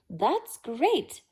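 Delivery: gleeful cry. A narrator's reading. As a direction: cheer it out with glee. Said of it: "Mister Willoughby cried with glee".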